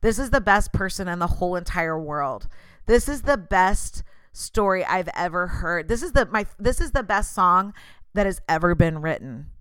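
a touch of gushing superlatives; lightly mock the over-the-top flatterer; mildly hammed-up gushing. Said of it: "Everything is the".

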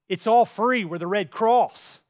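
loud, emphatic It's all free; loud announcement. Retold or imitated. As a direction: tell the colonel outright, loudly. Bystander announces it loudly.

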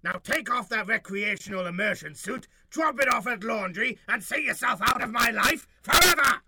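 alien ruler shouting; rising to an angry shout. Acted. Overlord ranting at ex.

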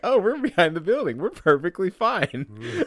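high, slow and overconfident; falsely reassured; smug mock calm. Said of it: "when we were like".

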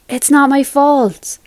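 high, loud, drawn-out objection; aggrieved husband raising his voice; defensive protest. A narrator's reading. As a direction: push back against the blame.

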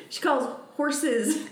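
put-on a light Maine grandma accent on husses; imitating Mammy's accent. Imitating grandma saying husses in a Maine accent. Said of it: "this is just a Mammy accent".

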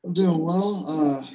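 sounds like in a tunnel. Real, not acted. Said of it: "You sound like you're in a tunnel".

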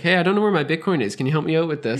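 brother's voice, lifted and quick, in a mild imitation; imitating clueless brother. Brother asking for help finding his Bitcoin, lightly imitated, quick. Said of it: "He's like".

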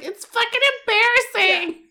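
high, mock-mortified voice note. Friend imitating her angry voice note, mock mortified. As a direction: ham up her embarrassment.

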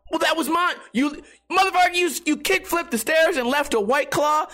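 high, accusing mock rant; hammed-up accusing yell; mock call-out. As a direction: jab at the hypocrite, pitch way up. Calling out a littering skater.

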